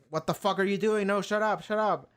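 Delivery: hammed-up panic telling him to shut up; mock alarmed protest. Crew begging Holden to stop broadcasting, in mock panic.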